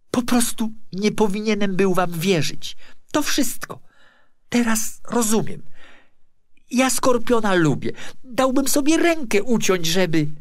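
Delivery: high, loud, pleading protest; desperate loud plea. Acted. David pleading with the officials, loud and desperate. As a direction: beg them to believe him, voice rising.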